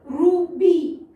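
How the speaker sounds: "रूबी" slowly, with a long oo after the r. Shown as a demonstration. Teacher modelling a word for pupils, "रूबी" with long oo. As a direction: stretch the oo in "रूबी", no y-glide. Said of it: "यहाँ बड़ा ऊ है".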